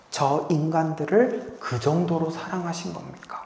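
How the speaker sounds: gentle, awed plea to the Father; tender awe. Acted. Voicing Jesus' true meaning.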